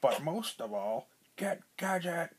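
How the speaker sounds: menacing villain hiss; villain whisper. A narrator's reading. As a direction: hiss the order like a schemer. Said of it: "Doctor Claw told the agent".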